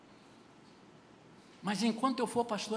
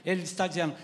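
ordinary delivery

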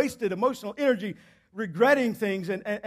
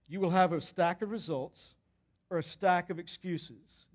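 slow weighty warning; 3 semitones lower, 6 dB quieter than usual. Real, not acted. Preacher slows down the warning.

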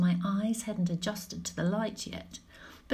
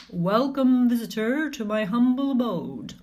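gremlin voice; 4 dB louder than usual. Acted. Gremlin greets visitor.

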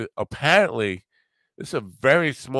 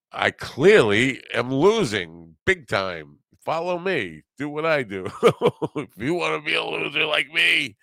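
mocking laugh; 8 semitones higher, 3 dB louder than usual. Mocking the gambler's boast.

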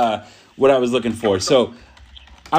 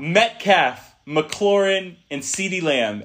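laughing reread; 2 semitones higher, much slower than usual. Real, not acted. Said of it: "Read it again for me, please".

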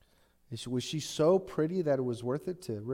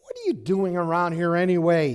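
angry demand; 2 semitones higher, 6 dB louder than usual. A narrator's reading. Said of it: "he was angry".

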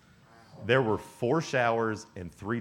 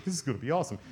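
higher-pitched giddy mock excitement; so excited; 4 semitones higher, much faster than usual. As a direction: act like you can barely contain it. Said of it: "He's so excited".

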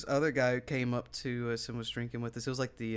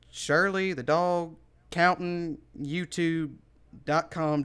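higher, louder halting web address; retold dog owner; 4 semitones higher, 5 dB louder, slower than usual. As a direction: spell it out piece by piece as the owner. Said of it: "he says the dog's name".

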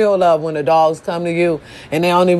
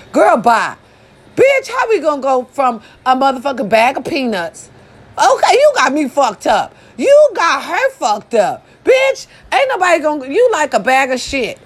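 higher, heated mock tirade; mock rant; 5 semitones higher than usual. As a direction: tear into her, playfully.

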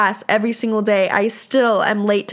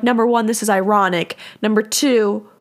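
yelling. Real, not acted. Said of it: "oh, I'm yelling now".

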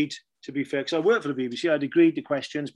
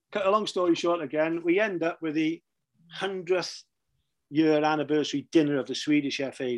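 ordinary delivery

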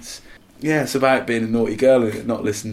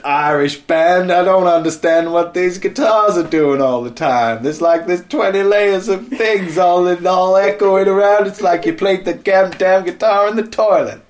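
put-on American accent; 7 semitones higher, 6 dB louder than usual. Mocking Americans' reaction to an Irish band, American accent. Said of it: "In America, said".

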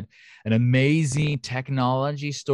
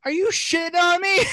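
very high-pitched comic bear outrage; hammed-up incredulous bear, voice shooting up; indignant bear. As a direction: squeal it as the affronted bear. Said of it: "this thing thought".

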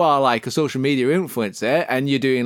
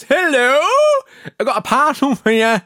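delivery man; 9 semitones higher, 4 dB louder than usual. Retold or imitated. FedEx musician voiced.

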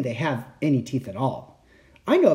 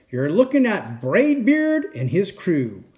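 pirate captain voice; 5 semitones higher than usual. Acted. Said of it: "he said".

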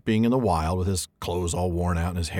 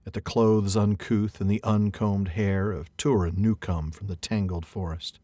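reading verse aloud. Acted. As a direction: read it like an old epic. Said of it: "I get to read some alliterative verse".

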